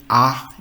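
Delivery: German letter A said as an open "ah"; pronuncia tedesca. Shown as a demonstration. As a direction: say "ah" as the German name of A. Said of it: "A in English is pronounced as".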